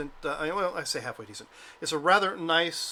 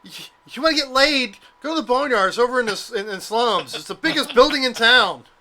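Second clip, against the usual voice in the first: put-on child and street-crier yelling, much higher, louder; 8 semitones higher, 10 dB louder than usual. Telling about kids paid to run around town yelling out, acting out their yelling. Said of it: "yelling out".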